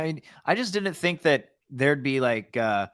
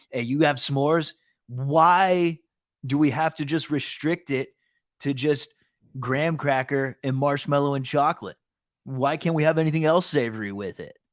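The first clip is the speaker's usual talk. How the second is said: stoner voice. Retold or imitated. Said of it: "my stoner impression".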